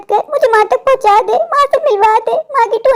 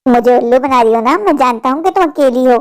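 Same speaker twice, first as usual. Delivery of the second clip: lower, fast coaxing voice of a shady man; sly stranger; 7 semitones lower than usual. Acted. Stranger coaxing a little girl to come along, sly and lower. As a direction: sweet-talk the child like a creep.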